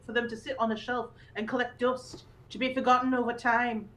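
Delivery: lightly put-on Yorkshire reading voice; Yorkshire accent. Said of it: "I'll do the Yorkshire one".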